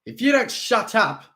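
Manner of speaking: menacing snarl. A narrator's reading. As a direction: snarl the threat. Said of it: "Steve snarled".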